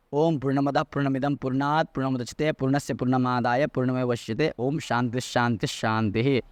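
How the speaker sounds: measured closing peace chant in Sanskrit; low-key Vedic prayer to end a class; Sanskrit prayer recitation. Real, not acted. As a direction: recite a closing shanti mantra, drawing out the final words.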